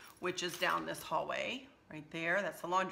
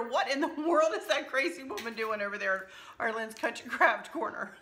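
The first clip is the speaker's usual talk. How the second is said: laughing; 4 semitones higher than usual. Real, not acted. Laughing through self-mocking quote.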